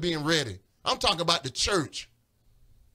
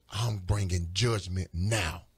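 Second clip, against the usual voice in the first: voice of God; 7 semitones lower, slower than usual. Retold or imitated. God voiced in retold vision.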